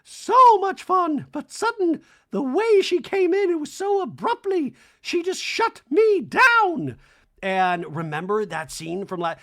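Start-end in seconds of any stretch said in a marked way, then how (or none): 0.0-7.0 very high, loud, drawn-out put-on voice; hammed-up falsetto complaint, stretching the words; Dorit. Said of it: "And Dorit's like".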